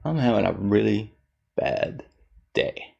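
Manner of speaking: quiet, deflated mock mope; mopey mumble. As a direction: sag and mutter it softly. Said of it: "sitting there like this, going".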